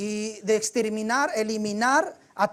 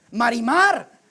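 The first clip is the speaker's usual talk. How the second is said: mock telenovela announcement; 7 dB louder, much slower than usual. Hams up soap opera title.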